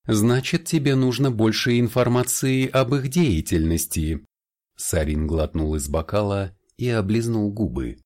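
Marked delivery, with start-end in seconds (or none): 0.0-4.2 higher, lively vampire voice; a hint of a suave vampire; lightly voiced vampire. Vampire Sarin's voice in dialogue. (слегка обозначенный голос вампира)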